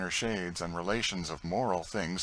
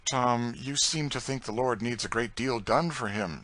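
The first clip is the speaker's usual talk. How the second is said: smiling; 5 semitones higher, 4 dB louder than usual. Acted.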